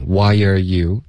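"Why are you" as three even beats; "Why are you" with are weakened to er; three linked syllables. Shown as a demonstration. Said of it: "三个音节".

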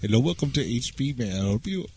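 mock Indian call-centre. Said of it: "really sounds like the H P people".

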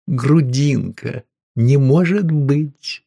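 woman finds the bacon, slow delighted cry; ecstatic. Acted. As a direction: savour the surprise of the bacon.

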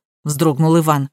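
ordinary delivery

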